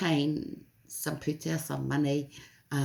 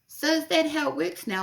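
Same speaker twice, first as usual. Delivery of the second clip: higher and louder, mock-incredulous; a hammed-up Marie, high and louder; Marie asking; 14 semitones higher, 5 dB louder than usual. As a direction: ask it like you can't believe it, pitched up. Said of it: "And she goes".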